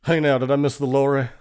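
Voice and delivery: quick, playful twang; mock Southern twang. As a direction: toss out British slang in a twang. Joining the mock twang game.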